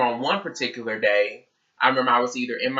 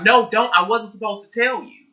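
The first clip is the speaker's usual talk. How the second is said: mock friend; 8 semitones higher, 3 dB louder than usual. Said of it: "She's like".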